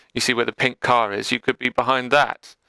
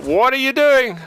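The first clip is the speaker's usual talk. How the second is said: high, louder exasperated cry; 13 semitones higher, 6 dB louder than usual. Real, not acted. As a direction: groan it out in disbelief. Coach reacts to misplay.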